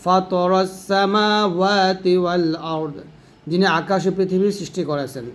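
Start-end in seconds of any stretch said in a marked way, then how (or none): 0.0-3.0 slow, drawn-out recitation; measured tajweed recitation; Quran recitation. Shown as a demonstration. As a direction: recite it slowly and clearly. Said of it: "ফা ত, ত জবর ত".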